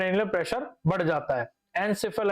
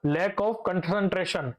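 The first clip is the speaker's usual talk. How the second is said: slow dictation; much slower than usual. Shown as a demonstration. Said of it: "repeats the term slowly while writing".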